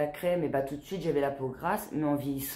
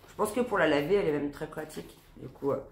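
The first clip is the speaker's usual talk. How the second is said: talking through a stuffy nose; congested, nasal sound of a cold; blocked nose; faster than usual. Real, not acted. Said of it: "je parle du nez".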